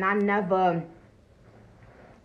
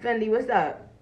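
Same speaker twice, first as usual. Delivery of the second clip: ordinary talk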